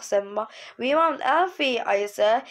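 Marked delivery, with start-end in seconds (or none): 0.8-1.8 tearful. Acted. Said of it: "tears started dribbling".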